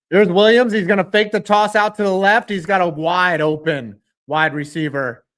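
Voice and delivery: excited announcer calling the pass; play-by-play call. Acted. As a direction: call it like a TV broadcaster.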